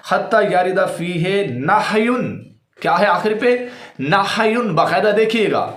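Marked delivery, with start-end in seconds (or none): 0.1-2.1 "نہی" slowly as nah-yun, h without vowel; careful correct reading. Shown as a demonstration. Quoting hadith's last words to viewers, careful reading. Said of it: "اس حدیث کے جو آخری الفاظ ہیں".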